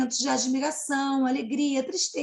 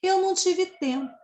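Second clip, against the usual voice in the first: cicada's answer; 5 semitones higher than usual. Acted. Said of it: "a cigarra vai responder".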